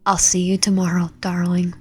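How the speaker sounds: soft whispered repeat, a little unsure; echoed whisper. Retold or imitated. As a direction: whisper it back to yourself, puzzled. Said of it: "repeats the whisper himself".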